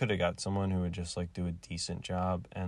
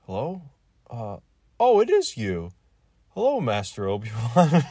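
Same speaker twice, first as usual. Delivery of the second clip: mock excited greeting; 5 semitones higher, 10 dB louder than usual. Retold Obi-Wan scene, excited greeting.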